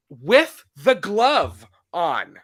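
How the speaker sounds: whispered, slow and drawn out; hushed emphasis. Real, not acted. Stressing the killer's glove to her cohost, a slow whisper. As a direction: drop to a whisper to sell the absurdity.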